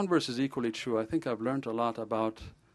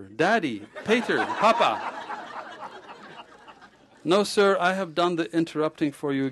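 louder, relishing the joke; punchline delivery; 4 semitones higher, 5 dB louder than usual. Acted. Ghosh joking with the patient about fatherhood, loud and gleeful. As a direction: savor the punchline.

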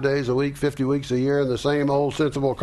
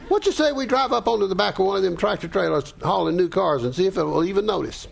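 quick, higher, giggly daredevil; saucy daredevil voice; 5 semitones higher, faster than usual. Acted. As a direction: dare the driver playfully. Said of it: "she'll respond".

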